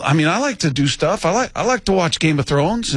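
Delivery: funny high-pitched impression; casual boast in a high, imitated voice. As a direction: pitch it up for a comic athlete quote. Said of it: "the pitch of it".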